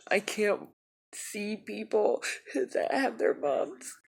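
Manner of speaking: choked up, breaking into tears mid-sentence; words pushed out through real tears; real crying. Real, not acted. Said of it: "I'm really sorry I'm crying".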